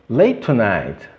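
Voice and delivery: "late tonight" joined with one T. Shown as a demonstration. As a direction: run "late tonight" as lei-tonight. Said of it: "elimino um deles e falo". ("late tonight" ligado, um único T)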